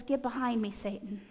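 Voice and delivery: quiet rebuke. Acted. Jesus rebukes Peter.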